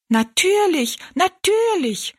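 high, squeaky echo of little people; chirping dwarfs. Acted. Three dwarfs echo the giant, very high squeaky voices. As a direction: pipe it up high like tiny folk. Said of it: "wiederholten die drei Zwergenmenschen".

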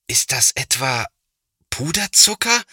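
can't believe what he sees; disbelieving question. A narrator's reading. Big brother asking his little brother in disbelief. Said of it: "fragt Thomas ungläubig".

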